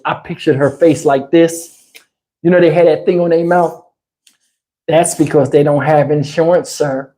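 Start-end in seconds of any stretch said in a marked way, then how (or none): 4.9-7.1 lightly voiced, low, dismissive operator; mock the smug 911 operator; snooty operator voice. Mocking the 911 operator's smug tone, lightly voiced. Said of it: "I was thinking of her doing it like that".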